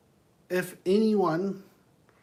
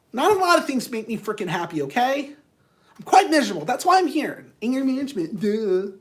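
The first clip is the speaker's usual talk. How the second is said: louder, higher, exasperated client; acted irritation; 4 semitones higher, 3 dB louder than usual. Miserable client in anger management snapping at counselor, irritated. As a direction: push back at the question, fed up.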